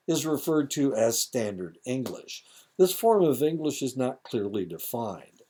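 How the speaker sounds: a touch of formal lecture reading; reading lesson aloud. Real, not acted. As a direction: read it out to the class from the page. Reads lesson text aloud.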